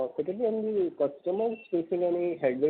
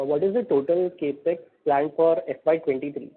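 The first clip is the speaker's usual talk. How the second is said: a little louder, firmer repeat; real raised-voice repeat; repeating to be heard; 5 dB louder than usual. Real, not acted. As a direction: repeat the question with more volume. Repeats question after a hello.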